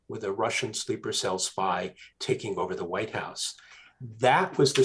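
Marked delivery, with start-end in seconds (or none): 0.1-3.5 hushed, secretive whisper; dramatic whisper. Real, not acted. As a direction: drop to a whisper for the reveal. Dramatic reveal of book plot.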